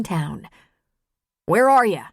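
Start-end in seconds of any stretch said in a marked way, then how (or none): 1.5-2.0 loud call, higher pitched; shouting. Acted. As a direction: yell it out across the distance. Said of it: "he shouted to Maggie".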